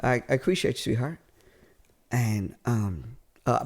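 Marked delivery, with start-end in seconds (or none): 0.0-1.2 put-on Southern accent. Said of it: "Southern accent".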